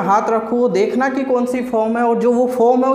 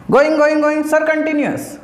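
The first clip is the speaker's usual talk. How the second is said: higher, quick pupil reply; student answering sir; 4 semitones higher than usual. Pretend. Teacher acting a student drilling answers, eager and higher. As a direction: rattle off the answer like a keen pupil.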